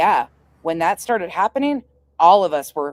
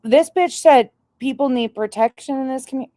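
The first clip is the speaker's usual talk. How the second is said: incredulous; 8 semitones higher, 3 dB louder than usual. Real, not acted. Outraged reaction to rival.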